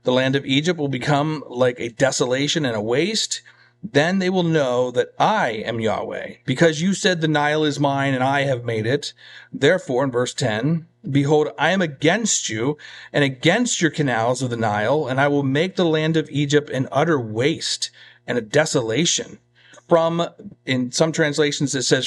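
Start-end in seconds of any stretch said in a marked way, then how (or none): 0.0-10.0 measured, emphatic Bible reading; scripture reading. Real, not acted. Preacher reading God's judgment on Egypt, measured scripture reading. 11.1-19.4 measured, emphatic Bible reading; scripture reading. Real, not acted. Preacher reading God's judgment on Egypt, measured scripture reading.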